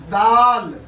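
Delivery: "दाल" with a long aa; long daal. Shown as a demonstration. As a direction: say "दाल" plainly, stretching the aa. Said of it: "आसानी से कहिए दाल". ("दाल" दीर्घ आ के साथ)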